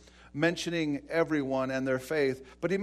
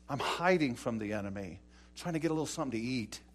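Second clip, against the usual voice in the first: timid Gideon; 4 semitones lower, 6 dB quieter, faster than usual. Acted. Gideon protests he is hiding.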